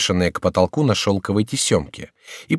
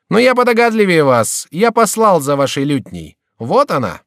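a hint of a smug, higher jester; pleased with his own cleverness, mocking; lightly voiced jester; 8 semitones higher, 4 dB louder than usual. Шико handing the lute, smug jester voice.

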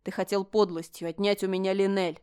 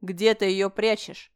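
slow, louder menacing demand; slow threat; 5 dB louder, slower than usual. Acted. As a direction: drag each word out as a threat. Alen demanding.

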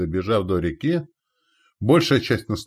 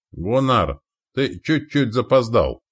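high, slow, hearty greeting shout; called out; 5 semitones higher, 4 dB louder, slower than usual. Acted. Commander greeting late ally, calling out. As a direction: call to an arriving friend. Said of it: "крикнул, раскинув руки для объятия".

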